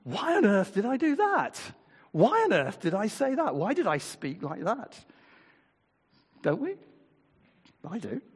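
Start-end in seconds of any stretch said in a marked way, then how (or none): 0.0-5.0 much higher, exasperated inner voice; exasperated self-reproach. Retold or imitated. Preacher voicing our regretful thoughts, exasperated higher inner voice. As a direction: scold yourself in disbelief. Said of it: "we sort of think".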